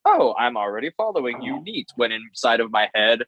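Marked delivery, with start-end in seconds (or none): 0.0-1.9 mock-casual with a lilting pitch; playing it cool. Tattooer to an idol while secretly thrilled, playing it cool. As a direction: feign breezy nonchalance to hide excitement. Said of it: "I had to play it cool".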